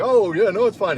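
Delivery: put-on high, loud old man brushing it off. Blind old man reassuring the young man, high voice. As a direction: chirp it out like a kindly old gent.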